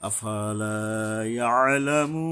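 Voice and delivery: ইয়ালামু with a pressed throat ain. Shown as a demonstration. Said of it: "গলা চেপে আদায় করতে হবে".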